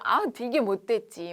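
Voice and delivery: usual speaking voice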